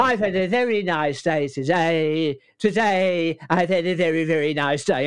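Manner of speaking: Bruce Forsyth voice. Shown as a demonstration. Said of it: "that thing with Bruce Forsyth".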